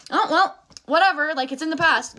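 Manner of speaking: high, breezy mock brush-off; mocking people who shrug off history; mock dismissive voice. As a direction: play the shrugging bystander, lightly. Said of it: "The people are like".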